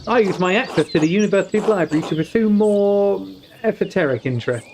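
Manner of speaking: lightly voiced high nobleman; a hint of a haughty nobleman; lord voice. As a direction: read it as a curious lord. Voicing a lord in visual novel.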